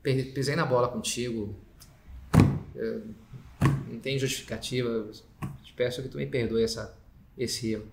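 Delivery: mildly contrite, halting apology; owning up. Acted. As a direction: admit the fault humbly, with pauses. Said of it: "diferente é dizer". (pedido de perdão sincero, levemente contido)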